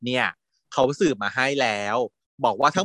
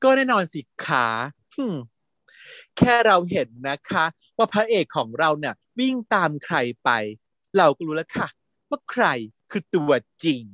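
proud mother. Retold or imitated. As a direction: coo over your favourite child. Mother continues boasting.

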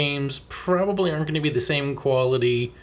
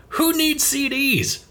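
mocking Nintendo; 3 semitones higher than usual. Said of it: "try to be like".

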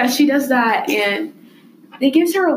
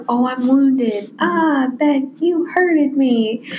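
slow, hammed-up whimper of pain; slow mock-wounded villain; mock wounded Joe; 3 semitones higher, much slower than usual. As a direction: ham up being hurt, slowly. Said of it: "he's kinda like".

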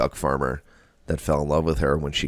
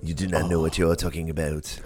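quick mock French accent; dismissive in hammy French; put-on French skunk accent; Pepe Le Pew; 3 dB quieter, faster than usual. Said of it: "hit me with some Pepe Le Pew".

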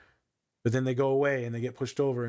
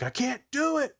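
a lightly mocked tearful cry, much higher; imitated crying plea; 12 semitones higher than usual. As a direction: retell a student's teary I can't, hammed up high. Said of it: "this individual just crying".

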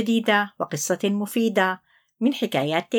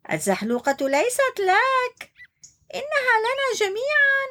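high, firm little turtle; turtle answers. Acted. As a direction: correct him kindly but firmly. (مرعوش يرد على عنتر بحزم)

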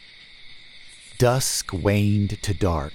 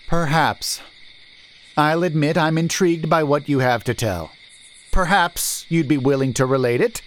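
higher, loud menace in the merchant; threatening merchant; 8 semitones higher, 3 dB louder than usual. A narrator's reading. Merchant threatening the stranger with a sword, menacing. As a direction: warn him you'll run him through.

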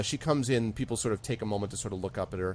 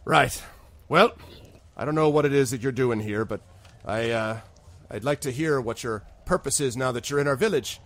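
lightly voiced constable questioning strangers; a hint of an official sizing up newcomers; mildly probing character voice; wary village constable; 3 semitones higher than usual. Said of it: "she looks at all of you and she says".

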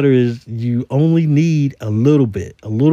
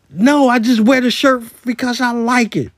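sarcastic retort; 8 semitones higher than usual. Retold or imitated. Sarcastic answer to silly question.

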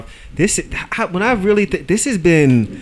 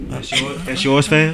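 barber quote. Retold or imitated.

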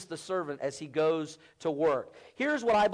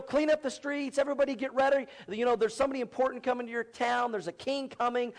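higher-pitched herald rousing the townsfolk; town messenger; 5 semitones higher than usual. Acted. Messenger telling townspeople a king is coming, higher urgent announcement. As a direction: voice a messenger urging people to get ready. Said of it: "they would send a servant, a messenger".

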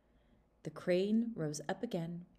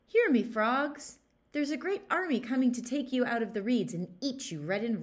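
calling out; 6 semitones higher, 7 dB louder than usual. Acted. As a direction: shout a false alarm to the frogs. Weasel calls out to the frogs.

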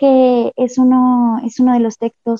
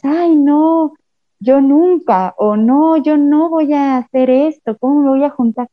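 higher-pitched mock refusal; reluctant protest; 5 semitones higher than usual. Reader admitting what we tell ourselves, mock reluctant. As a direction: play a reluctant objection, pitched up.

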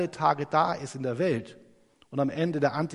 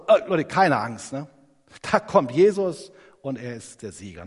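louder, bold call to the whole crowd; loud reassurance; 8 dB louder than usual. Retold or imitated. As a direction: shout it out so nobody is afraid. Paul reassures frightened Christians.

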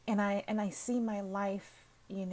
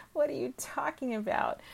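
surprised disbelief; 6 semitones higher, 3 dB louder than usual. Retold or imitated. Surprised reply to his suggestion.

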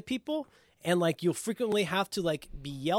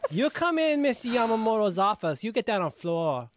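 mock Asian accent. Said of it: "Are you supposed to be Korean?".

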